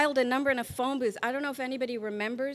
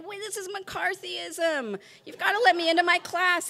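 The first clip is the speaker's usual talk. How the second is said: mock outrage; 7 semitones higher, 4 dB louder than usual. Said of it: "I'm like".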